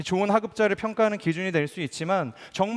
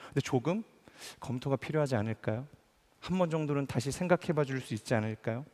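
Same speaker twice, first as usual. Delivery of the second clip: softer, lower-key tactful suggestion; softened, tactful; 3 semitones lower, 6 dB quieter than usual. Acted. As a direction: cushion the complaint as a gentle question. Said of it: "중간에 조금 순화해서 이야기하지 않습니까".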